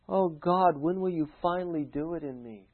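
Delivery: mock plea to God, softly; a touch of whiny impatience; impatient believer. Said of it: "That's what they think".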